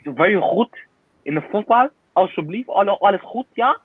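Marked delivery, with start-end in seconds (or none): 2.2-3.8 speaking Dutch. Pretend. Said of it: "I'm speaking Dutch".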